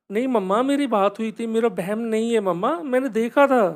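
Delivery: put-on child insisting to mom she saw it; insistent child.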